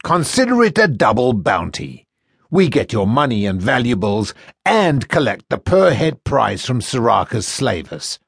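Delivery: mock the captive boy like a smug slaver; sneering first mate. First mate taunting the boy he sold, sneering.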